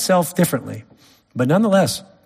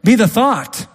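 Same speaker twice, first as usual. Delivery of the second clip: outraged rebuke; 7 semitones higher than usual. Retold or imitated. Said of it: "It's like".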